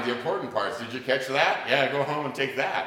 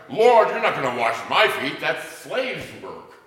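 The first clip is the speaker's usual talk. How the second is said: Peter protesting; 4 semitones higher, 10 dB louder than usual. Acted.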